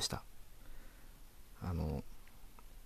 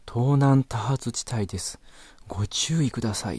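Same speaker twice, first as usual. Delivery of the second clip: loud car navi announcement; 3 semitones higher, 4 dB louder than usual. Retold or imitated. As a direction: boom it out like a car navi warning the whole street. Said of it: "めちゃくちゃ大きい声で".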